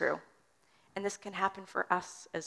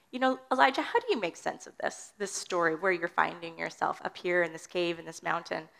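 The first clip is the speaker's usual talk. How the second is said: gentle questioning. Pretend. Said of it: "wonders... if the Lord's not saying".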